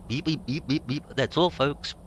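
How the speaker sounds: high stuttering cartoon pig sign-off; cartoon pig voice, beeped stutter; Porky Pig impression. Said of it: "I've got the actual, uh, Porky Pig".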